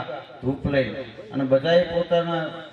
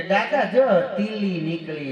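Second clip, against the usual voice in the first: put-on lisping child; slower than usual. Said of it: "તોતરું".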